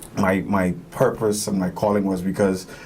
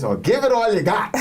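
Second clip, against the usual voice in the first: high-pitched imitation of an insistent grandmother; emphatic high granny impression; grandmother's voice; 10 semitones higher than usual. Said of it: "in my grandmother's voice".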